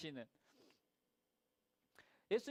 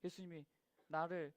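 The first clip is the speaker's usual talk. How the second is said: worried inner gasp; 5 dB quieter than usual. Retold or imitated. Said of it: "막 이렇게 걱정이 됐을 거란 말이에요".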